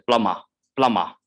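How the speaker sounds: British plumber; non-rhotic plumber. Shown as a demonstration. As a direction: drop the final R of plumber. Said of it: "ignore R in the end".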